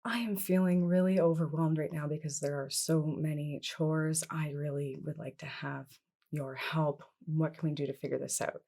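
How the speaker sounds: soft, quiet request for help; calm I statement. Shown as a demonstration. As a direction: ask gently, not blaming. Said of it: "I statements".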